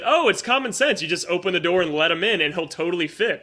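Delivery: mock the narrator's smug tone. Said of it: "Instead of just, like, the bullshit".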